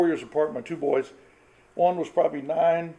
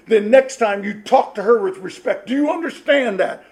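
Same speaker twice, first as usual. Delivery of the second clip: stern dad; 5 semitones higher, 7 dB louder than usual. Retold or imitated. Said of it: "I wanted them to think I was".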